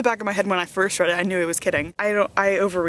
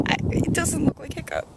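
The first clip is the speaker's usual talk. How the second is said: doubtful; 8 semitones higher than usual. Retold or imitated. Her doubtful reply to fans.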